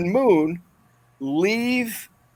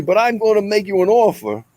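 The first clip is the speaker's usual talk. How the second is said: Godfather impression; 3 semitones higher than usual. Principal channels the Godfather at the boy, lightly voiced mobster. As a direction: make him an offer he can't refuse, mob style. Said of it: "a cross between Rodney Dangerfield and The Godfather".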